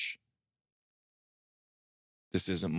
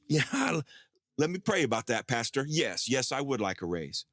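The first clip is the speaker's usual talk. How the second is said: barely contain the excitement; giddy, pretending to be modest; eager delight; 5 semitones higher than usual. Accepting the raise, overjoyed.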